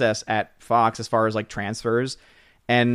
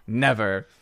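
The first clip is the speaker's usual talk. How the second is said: fake innocence; 2 semitones higher, slower than usual. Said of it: "Tina, your fake innocent voice is really bad".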